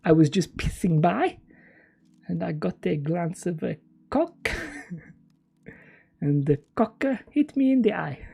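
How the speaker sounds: lightly put-on comic French accent; mock French English with mangled vowels. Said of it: "I've already done a French accent".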